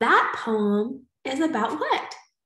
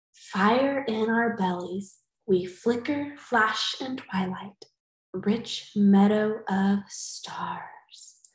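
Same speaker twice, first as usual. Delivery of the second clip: slow reading fading to a whisper; slow poem reading ending in a whisper; 3 semitones lower, slower than usual. Acted. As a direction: read it slowly, ending hushed. Reads haiku aloud.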